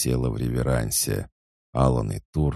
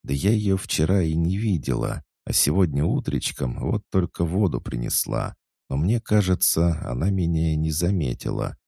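chatty excited maid; 5 semitones higher than usual. Acted. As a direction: gush it out breathlessly eager. Svetika gossiping. (восторженная болтливая служанка)

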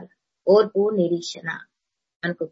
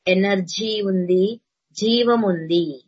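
slow and deliberate, each word given weight; drawn-out preacher emphasis; slow, weighty demo; much slower than usual. Shown as a demonstration. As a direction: spell out each phrase slowly. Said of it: "నువ్వు మాట్లాడడం నేర్చుకోవాలన్నమాట".

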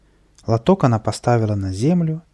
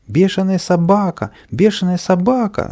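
high, louder alarm cry; shouting; 9 semitones higher, 5 dB louder than usual. A narrator's reading. Boy up a pole warning of mad dog, shouting. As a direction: cry out in panic. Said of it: "закричал сверху Каприска".

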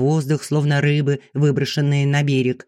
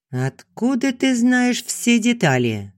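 much higher, slow, suspicious; suspicious question; 10 semitones higher, slower than usual. A narrator's reading. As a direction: ask it like you smell a trick. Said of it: "подозрительно спросила Вера". (подозрительно, медленно и гораздо выше)

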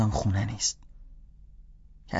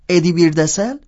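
puzzled guessing; 8 semitones higher, 6 dB louder than usual. Acted.

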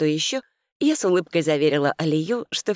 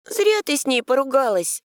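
soft and sad; 10 semitones higher, 3 dB louder than usual. A narrator's reading. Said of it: "тихонько и грустно сказала Али".

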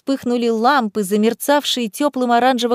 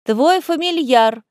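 slow called-out reply; calling out; 4 semitones higher, slower than usual. Acted. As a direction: shout it back slowly. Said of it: "крикнула в ответ Корнелия".

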